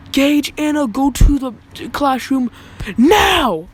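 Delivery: loud, high stern summons over the intercom; intercom call. Retold or imitated. Teacher on the intercom calling kids to class, loud. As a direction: bark the names like an angry announcement. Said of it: "I hear the intercom go like".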